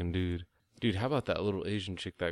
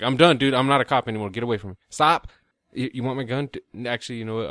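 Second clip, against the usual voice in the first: loud, higher pretend outburst throwing down the badge; mock yell; 4 semitones higher, 8 dB louder than usual. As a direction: shout him off as a cop who quits. Imagined quitting cop shouting at attacker.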